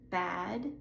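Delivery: Bad with a voiced D at the end; voiced final D. Shown as a demonstration. Teacher contrasting Bad with bat. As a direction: let the D in Bad ring. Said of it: "I will say the voiced word first".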